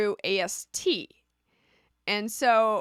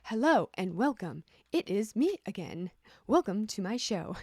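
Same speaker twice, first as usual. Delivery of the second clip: a lightly done phone-menu greeting; automated voice. Shown as a demonstration. Joking to viewers in a mild automated voice. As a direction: play a recorded system welcoming callers. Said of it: "I use my automated voice".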